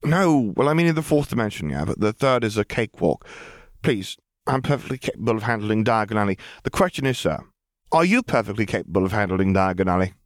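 put-on a precocious child rattling on; chattering girl. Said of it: "the floodgate of words flew out".

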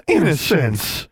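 high scolding exclamation; shocked exclamation. A narrator's reading. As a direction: cry the name in mortified reproof. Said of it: "exclaimed together".

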